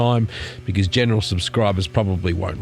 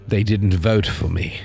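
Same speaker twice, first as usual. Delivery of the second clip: Justin Trudeau; slower than usual. Retold or imitated. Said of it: "Justin Trudeau ... having a sook".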